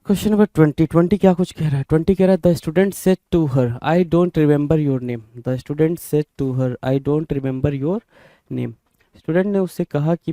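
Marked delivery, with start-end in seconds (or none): 2.4-5.4 slow dictation. Shown as a demonstration. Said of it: "teacher reads sentence slowly". 5.5-8.7 slow dictation. Shown as a demonstration. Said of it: "teacher reads sentence slowly".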